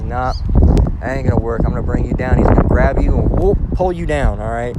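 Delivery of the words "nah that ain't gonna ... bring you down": the Most High, voiced. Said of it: "The Most High says".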